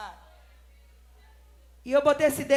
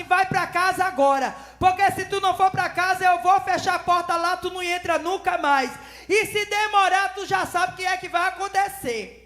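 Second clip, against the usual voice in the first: threatening order; 4 semitones higher, 5 dB louder than usual. Retold or imitated. Man orders woman home.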